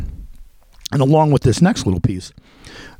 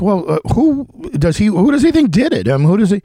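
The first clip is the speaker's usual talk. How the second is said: eager retold question; 7 semitones higher, 3 dB louder than usual. Retelling pressing question to source.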